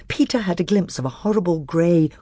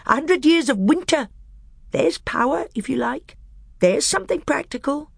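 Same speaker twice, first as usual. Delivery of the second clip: high, sly dwarf voice pitched well up; a bitter dwarf testing the council; high, crafty dwarf; scheming dwarf; 11 semitones higher than usual. Acted.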